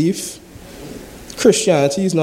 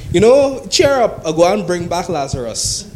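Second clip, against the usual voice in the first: mock cheery comfort; 3 semitones higher than usual. Mock Jesus cheering mourners up.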